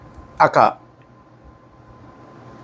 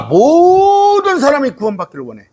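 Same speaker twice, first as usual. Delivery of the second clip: high, long-held 모든; 10 semitones higher than usual. Real, not acted. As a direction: stretch 모든 out high, then fall away. Preacher stresses salvation for everyone.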